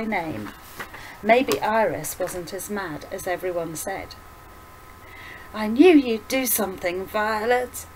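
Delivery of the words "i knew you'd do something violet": put-on old woman voice. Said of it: "the old woman winked".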